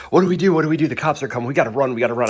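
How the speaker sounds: high, loud mock panic; freaking out. Boys to storyteller as police approach, mock panicked. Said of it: "my boys are freaking out".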